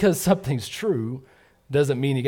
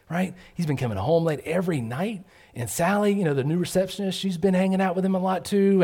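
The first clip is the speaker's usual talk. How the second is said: mildly hushed, eager gossip voice, a bit higher; hushed gossiper; 3 semitones higher than usual. Retold or imitated. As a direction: lean in and spill the news about Bob. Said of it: "somebody saying".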